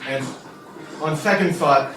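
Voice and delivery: sheepish hireling briefing a client; flustered waiter, apologetic. Acted. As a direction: pick through it awkwardly, in quick halting bursts.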